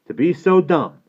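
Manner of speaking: blunt boss voice, well above the narration; Abe lecturing. Acted. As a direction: tell the youngster off. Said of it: "Abe told Alvin".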